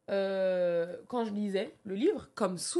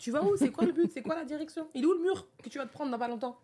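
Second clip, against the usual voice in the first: higher, pressing self-questions; questioning herself; 5 semitones higher than usual. Retold or imitated. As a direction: voice the doubts nagging inside her head. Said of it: "je me demandais". (elle se questionne, voix plus aiguë et insistante)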